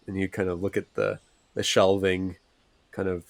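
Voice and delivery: ordinary delivery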